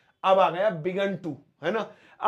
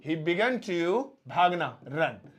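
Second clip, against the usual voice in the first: slow dictation; much slower than usual. Shown as a demonstration. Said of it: "अब देखिए spelling A वाली".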